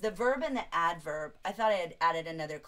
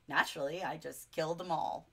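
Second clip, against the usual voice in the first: lightly voiced suave TV host, a bit lower; a hint of an impression, offhand and lower; Mister Rourke; 4 semitones lower than usual. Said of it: "this is Mister Rourke from Fantasy Island".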